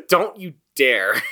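slow, laughing mock warning; laughing threat. Real, not acted. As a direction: warn him while laughing.

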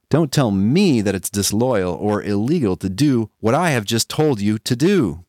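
furious king, pitched high and shouting; angry king. Acted. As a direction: roar it like an offended tyrant. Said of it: "Big Kim would probably say".

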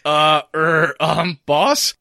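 uncertain, questioning stammer; hesitant henchman. Acted. Muscle unsure before the boss, hesitant. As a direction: hem and haw before asking. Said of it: "the muscle is kind of like".

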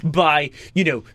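slow, laid-back sixties hippie. Retold or imitated. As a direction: drawl it like a sixties counterculture guy. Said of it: "Can I talk like a nineteen sixties countercultural guy".

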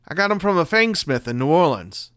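usual speaking voice

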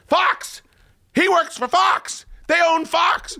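high, insistent exclamations; exasperated. Retold or imitated. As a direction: make her get it, exasperated. Arguing with wife about Fox.

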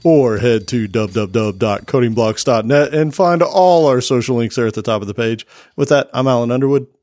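polished radio announcer read. Acted. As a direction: read it like a sports broadcaster. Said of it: "put on your announcer voice".

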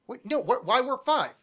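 exasperated rant. Real, not acted. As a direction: argue it, baffled and worked up. Exasperated ranting about episode.

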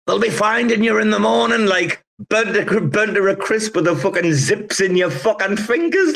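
high, gleeful Scouse warning, slowing on burnt; mock doom warning. Kebab man warning the campers about the storm, high mock doom. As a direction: paint the grim fate in a high mock voice. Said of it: "he was like".

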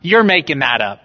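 a doubter in the pews scoffing at John; skeptical doubter. Retold or imitated. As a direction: needle John like an incredulous skeptic. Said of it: "just in case you're like".

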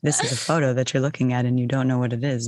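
lightly voiced sultry ASMR narrator; sexy groovy voice. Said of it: "the sexy groovy voice".

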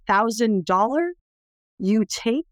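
slow, lightly voiced broken-English question; mild imitation of the mother, slow and rising; broken English offer. Cambodian mother offers her baby to tourists, slow imitation.

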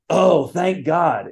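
slow, drawn-out mock relief; flippant exclamation. Preacher imitating what people casually say, flippant. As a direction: stretch it out as a throwaway exclamation. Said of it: "in this kind of way".

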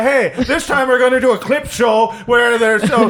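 mocking the boss, laughing; furious boss tirade; ranting boss. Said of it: "You say".

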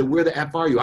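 acted anger. Dad calling daughter in anger, angry. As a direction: act out an angry dad's demand. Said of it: "I would have called in anger".

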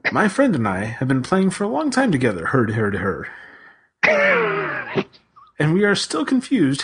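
sing-song Swedish Chef babble. Pretend. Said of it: "I was impersonating the Swedish chef".

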